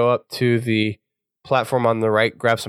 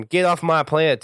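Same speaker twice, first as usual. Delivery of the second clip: put-on higher, drawn country boy accent on this line; 6 semitones higher than usual. Mocking Buck's line in a country boy accent. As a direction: redo it as a hammed-up country boy. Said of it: "in his best country boy accent".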